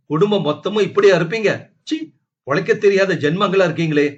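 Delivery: high, loud, fast scolding; angry shouting. Acted. Wife shouts contempt at her husband's family, high and loud. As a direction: tear into the whole family.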